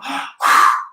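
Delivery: sharp demonstration gasp; demo inhale gasp. Shown as a demonstration. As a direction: show the breath in. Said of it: "breathe in, breathe out".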